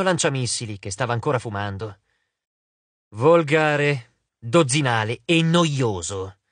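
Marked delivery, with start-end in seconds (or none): 3.1-6.4 slow, bored verdict, lingering on "dozzinale"; "Volgare, dozzinale e noioso" stretched out with weary scorn; drawn-out disdain. Acted. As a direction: savour each insult slowly. God repeats verdict, drawn out.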